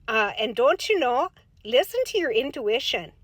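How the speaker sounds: put-on folksy Minnesota accent, chatty and sing-song; light Upper Midwest accent with long round vowels; Minnesota soccer mom voice. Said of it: "Minnesota soccer mom voice".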